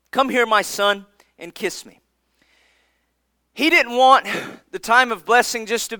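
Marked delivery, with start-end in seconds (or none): 0.1-2.0 softer repeat. Retold or imitated. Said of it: "his father Isaac said to him".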